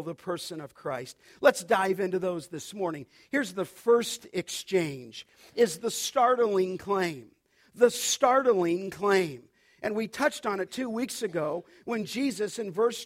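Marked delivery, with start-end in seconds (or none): 3.3-9.5 slow emphatic heading. Acted. Preacher slows for heading.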